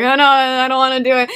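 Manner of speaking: retold reluctant whine; scared refusal. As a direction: imitate a nervous friend begging off. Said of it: "He was, like, scared".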